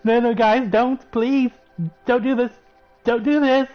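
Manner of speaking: imitating a desperate witch begging her friends; pleading. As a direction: plead with them not to do it, mock-frantic. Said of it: "Agatha's now like".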